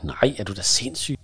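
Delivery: mild outburst of disbelief; exclaimed protest. Acted. She objects to going down to the car, exclaimed. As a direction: blurt it out, mildly appalled. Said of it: "udbryder jeg".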